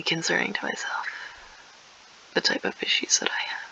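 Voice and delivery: confessional whisper. Acted. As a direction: whisper it as a half-joking confession.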